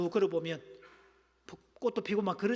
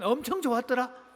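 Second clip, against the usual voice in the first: Chungcheong dialect; 4 semitones higher, 3 dB louder than usual. Shown as a demonstration. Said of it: "충청도 버전".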